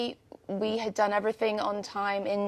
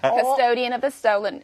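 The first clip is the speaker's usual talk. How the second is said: put-on Southern accent; 3 semitones higher, 3 dB louder than usual. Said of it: "Southern United States".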